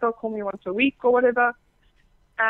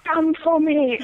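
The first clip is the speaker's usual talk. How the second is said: raised, higher-pitched demand; louder retold command; 6 semitones higher, 5 dB louder, slower than usual. Guest imitating someone on a call, insistent.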